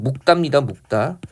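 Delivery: 묵다 said as muk-tta; basic-form pronunciation demo. Shown as a demonstration. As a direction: stop on k in 묵다, then tense tt. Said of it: "기본 발음은".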